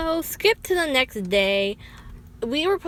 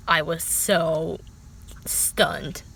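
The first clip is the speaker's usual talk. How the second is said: whispered; 4 semitones lower, 3 dB quieter, much slower than usual. Real, not acted. Speechless shock.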